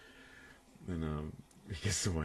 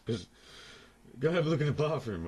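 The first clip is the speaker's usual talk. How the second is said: mum's comeback; 8 semitones higher, 5 dB louder than usual. Retold or imitated. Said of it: "She goes".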